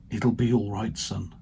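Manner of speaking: soft, gentle, fading to a hush on son; tender reassurance. Retold or imitated. Preacher softly recalling God's loving words. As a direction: say it like a loving father calming his boy. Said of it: "the love that was in that voice".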